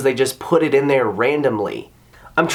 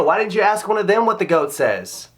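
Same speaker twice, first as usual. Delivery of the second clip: ordinary delivery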